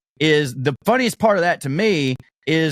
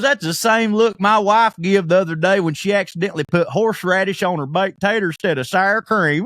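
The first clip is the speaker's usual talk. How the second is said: raised-pitch, lightly hammed-up joke delivery; imitating an excited man; 5 semitones higher than usual. Retelling a man's joke about his wife, excited imitation.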